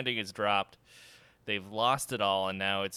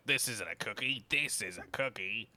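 put-on Crocodile Dundee Australian accent; Australian mascot; 4 dB quieter than usual. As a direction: play an Aussie kangaroo mascot. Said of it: "The Crocodile Dundee hat".

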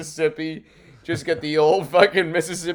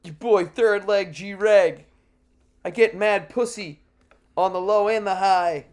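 rapper persona; 5 semitones higher than usual. Pretend.

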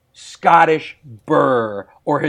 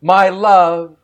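poem recital; 6 dB louder than usual. Shown as a demonstration. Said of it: "I'm gonna say a line of poetry".

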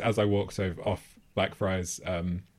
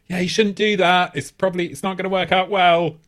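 raised-pitch, token attempt at dissuading; half-hearted help; 7 semitones higher, 5 dB louder than usual. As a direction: imitate a useless, unconvincing plea to stop. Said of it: "But not in a real way".

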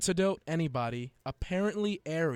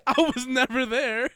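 much higher and louder, yelled through laughter; laughing shout; 9 semitones higher, 8 dB louder than usual. Real, not acted. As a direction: shout it while losing it laughing. Cracking up reading list.

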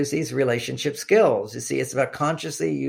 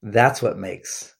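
tender; 2 semitones lower than usual. Retold or imitated. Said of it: "so sweet".

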